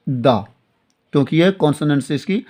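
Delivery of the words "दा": दा with an open a at the end; pronounce the as da. Shown as a demonstration. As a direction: say दा, as before a consonant. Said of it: "उसको pronounce करेंगे". ("दा" उच्चारण, खुला आ)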